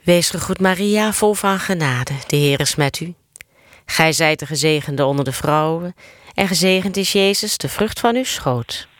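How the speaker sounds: steady chant-like Hail Mary; prayer recitation. Real, not acted. Leading the Hail Mary for others to answer, steady prayer recitation. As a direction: recite in an even, practised cadence.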